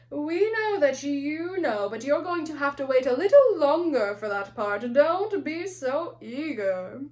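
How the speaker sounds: slow, teasing voice of the movie; slow mock movie voice. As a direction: drawl it out like a knowing tease. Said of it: "the movie's way of saying".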